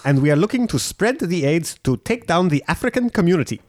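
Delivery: lightly put-on South African voice; a hint of a South African villain; South African accent. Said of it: "Her voice".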